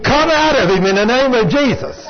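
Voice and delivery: mock yell of holy authority; retold scream. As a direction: imitate a screamed exorcism order.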